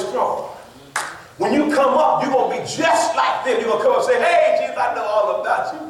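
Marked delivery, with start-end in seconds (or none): 4.2-5.8 overfamiliar greeting. Acted. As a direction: greet Him like an old buddy, calling out. Cocky churchgoer greets Jesus at judgment.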